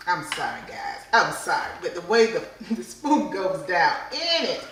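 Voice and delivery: loud delighted apology; excited. Real, not acted. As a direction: overcome with delight. Excited over spoon in cheese.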